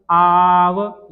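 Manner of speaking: आव called out loud; teacher stressing a sound; loud model syllable. Shown as a demonstration. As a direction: call out आव clearly. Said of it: "ये आव का उच्चारण".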